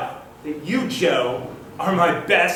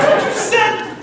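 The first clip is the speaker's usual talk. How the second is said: high, loud accusing cry; indignant outburst; 5 dB louder than usual. Acted. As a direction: throw the words back at him, outraged. Accusing friend in divorce scene.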